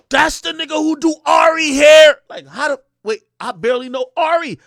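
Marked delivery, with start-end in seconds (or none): 0.1-2.2 high, shouted imitation of a girl; exasperated date. Date explaining the connection, exasperated high shout. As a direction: mimic her yelling the obvious.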